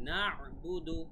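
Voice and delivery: "না'বুদু" with a distinct throat ayn after "না"; clear ayn. Shown as a demonstration. Teacher modelling the letter for learners, clear ayn in "না'বুদু". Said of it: "আইনের উচ্চারণটা clear থাকতে হবে".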